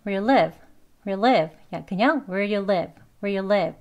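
"where you live" with no d heard; quick linked "where you live"; very weak do. Shown as a demonstration. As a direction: melt "where you" into one sound before "live". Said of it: "아주 약하게 발음해서 그렇습니다".

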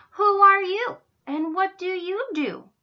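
high, loud storybook roar; roaring lions. A narrator's reading. Lions confront the cow, roaring. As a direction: roar the question at the intruder. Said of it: "the lions roared".

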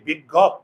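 "বিজ্ঞপ" ending in an open gawp; wrong open vowel. Shown as a demonstration. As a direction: say "বিজ্ঞপ" with the jaw dropped on the last vowel. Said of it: "আমরা কি গপ বলি?".

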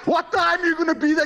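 real furious yell, pitched high; angry shout. Real, not acted. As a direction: bark the question at him, furious. Furious father confronts prank caller.

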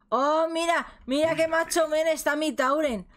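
high, bright showing off; excited. Real, not acted. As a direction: brag about your character. Shows off character.

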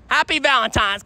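bright greeting. Real, not acted. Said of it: "I gotta tell 'em Happy Valentine's".

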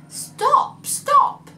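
very high, loud stop stop; high loud horse voice; high horse cry. A narrator's reading. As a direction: call out as the horse.

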